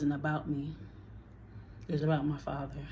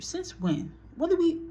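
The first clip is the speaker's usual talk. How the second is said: shocked; 12 semitones higher than usual. Real, not acted. Shocked at father's reported refusal.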